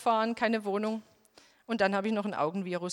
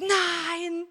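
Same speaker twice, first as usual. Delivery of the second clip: high, loud refusal; telling God no, high and loud; protesting no; 7 semitones higher, 4 dB louder than usual. Retold or imitated. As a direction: blurt a sharp no. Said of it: "Ich hab gesagt".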